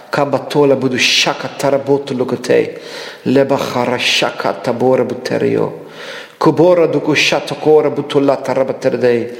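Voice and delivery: fluent rhythmic glossolalia, rolling syllables; speaking in tongues. Real, not acted. Preacher praying in tongues over the congregation, rhythmic tongues. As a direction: pour out tongues in prayer.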